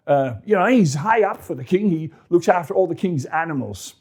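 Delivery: put-on high, concerned old priest; a fussing worried priest. Ahimelech voiced.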